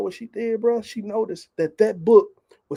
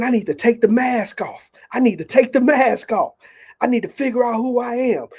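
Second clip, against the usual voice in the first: raised, louder voice of an excited father retold; acting out an excited dad; 3 semitones higher, 4 dB louder than usual. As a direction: retell his urgent declarations with mounting energy. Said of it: "I heard my father excited".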